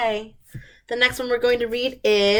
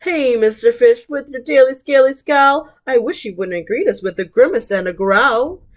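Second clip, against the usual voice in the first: jellyfish voice; 3 semitones higher, 5 dB louder than usual. Acted.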